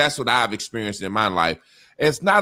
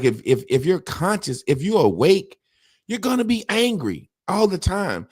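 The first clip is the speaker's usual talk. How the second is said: Baldwin's words said with more force; louder retelling; 6 semitones higher than usual. Retold or imitated. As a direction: quote pushed louder and rising. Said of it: "He was like".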